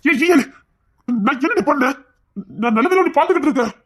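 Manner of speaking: indignant husband raising his voice. Acted. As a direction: push back hard at the wife. Husband defends himself, raised voice.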